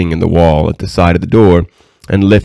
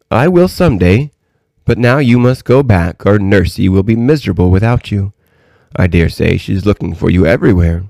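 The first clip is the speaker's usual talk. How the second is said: lightly voiced kindly old lady; 2 semitones higher than usual. Old lady sending the princess back to Nursey, lightly voiced and kindly. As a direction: lightly play the old lady, gently firm.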